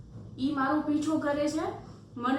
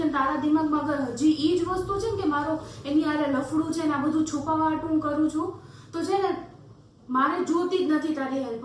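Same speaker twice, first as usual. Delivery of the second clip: raised, exasperated voice; heated argument; 2 semitones higher, 4 dB louder than usual. Acted. Girl denying an affair to a doubting relative, heated. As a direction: push back hard, fed up with being doubted.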